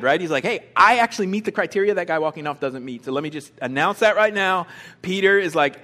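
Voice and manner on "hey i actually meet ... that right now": quick, eager announcement; real excited. Acted. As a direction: blurt it out, keen to be noticed. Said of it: "he's like real excited".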